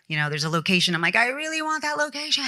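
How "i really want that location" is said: high-pitched mock pleading; playfully wheedling for a favor; wishful pleading. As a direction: beg for it in a raised, drawn-up voice. Acts out her demand to producer.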